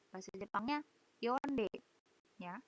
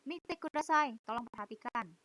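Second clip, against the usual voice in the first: calling class to attention. Retold or imitated. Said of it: "Misalnya kalian ada yang ngobrol nih".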